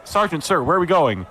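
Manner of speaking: high, eager-to-know call from behind; Zem. Acted. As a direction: pipe up to the sergeant. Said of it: "Zem goes behind him and goes".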